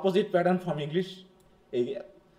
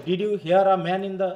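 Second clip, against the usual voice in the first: "hear" stretched and louder than the other words; focus on HEAR; 5 dB louder, much slower than usual. Shown as a demonstration. Teacher questioning saw or heard, loud stress on "hear". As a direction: hit "hear" hard and hold it. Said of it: "ভার্বের উপরে".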